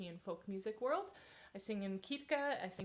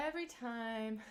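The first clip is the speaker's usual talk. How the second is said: laughing it off; amused chuckle at herself; 7 semitones higher than usual. Real, not acted. Laughs at her own yawn.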